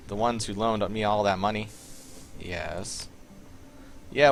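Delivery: playing the nervous hacker Blitz in a clumsy Southern accent; horrible southern accent. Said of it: "I have a horrible southern accent".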